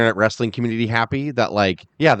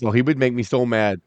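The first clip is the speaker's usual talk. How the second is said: imitating a muffled, aggrieved bodybuilder; a light impression, sore about a rival; Lou Ferrigno. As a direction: do a hint of a wounded strongman. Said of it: "That's how Lou Ferrigno talks".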